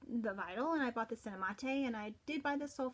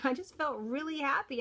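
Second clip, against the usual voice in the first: happy laugh; 5 semitones higher, 6 dB louder than usual. Real, not acted. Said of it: "I was happy".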